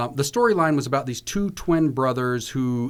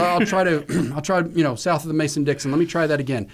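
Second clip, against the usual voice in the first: higher, keen, eager-to-please voice; eager actor; 5 semitones higher than usual. Retold or imitated. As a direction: play the obliging actor promising another take. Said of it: "And I said".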